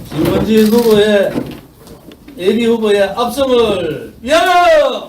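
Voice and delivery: toast shout. Real, not acted. Toast shout at party event. (힘찬 건배 구호)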